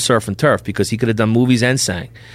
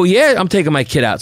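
higher-pitched retold comeback; defiant retort; 7 semitones higher than usual. Father answers the nurse who forbids him, retold defiant retort. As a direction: re-enact arguing right back.

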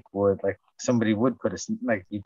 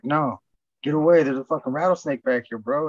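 raised, higher-pitched warning; retold urgent warning; 4 semitones higher than usual. Retelling how they warned a stranger off the rattlesnake, urgently. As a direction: warn him off, voice lifted.

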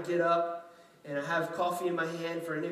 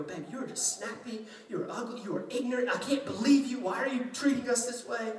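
exasperated wife; 6 semitones higher than usual. Retold or imitated. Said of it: "every right to go".

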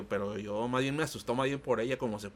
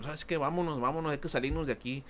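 mock frightened lady; 4 semitones higher than usual. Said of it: "pero empezó a temblar".

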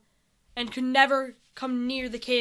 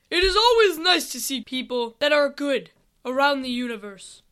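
lightly voiced commander, louder; army leader; 6 dB louder than usual. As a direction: project it like a mildly booming leader. Army leader speaks to the group.

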